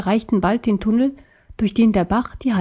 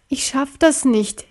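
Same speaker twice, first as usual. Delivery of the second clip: slow, higher plaintive moan; a mild lament of giving up; whining; 4 semitones higher, slower than usual. Acted. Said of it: "jammerte Sir Johann".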